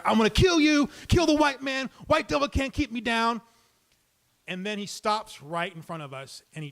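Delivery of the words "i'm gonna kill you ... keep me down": mock screaming rant. Storyteller voicing the screaming man on the subway, high ranting shout. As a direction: shout it like a raving man on the platform. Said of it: "he's still screaming at the air".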